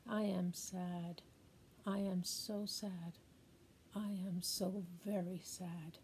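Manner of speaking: a sad grandmother grieving softly; sad grandma. Acted. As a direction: let the sadness sink in, quietly. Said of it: "Message from a sad and mad grandma".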